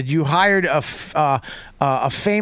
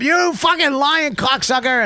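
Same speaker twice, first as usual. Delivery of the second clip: drawn-out, high-pitched playful cussing; mock insult; 9 semitones higher, slower than usual. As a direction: hurl the insult in mock outrage, stretched out. Acted roast insult between comics.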